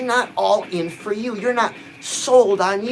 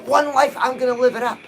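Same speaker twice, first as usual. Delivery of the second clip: believing affirmation; 3 semitones higher than usual. Shown as a demonstration. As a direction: say it like you believe it. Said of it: "Believe it".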